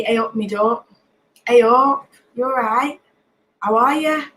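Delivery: Nottingham hellos, lilting upward; Nottingham greeting. Shown as a demonstration. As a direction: show off everyday Nottingham greetings. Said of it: "So we say".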